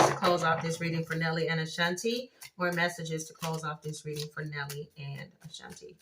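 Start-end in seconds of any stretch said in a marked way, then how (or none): 2.6-6.0 softer repeat. Shown as a demonstration. Card reader softly asking the deck for more messages. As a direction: repeat it again much softer, almost to herself. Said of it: "Give me some more messages".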